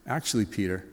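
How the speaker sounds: low, soft, sorrowful address; heartbroken. Acted. Jesus softly breaking bad news to Peter. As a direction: let it land gently and sadly. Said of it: "hear this in Jesus' voice".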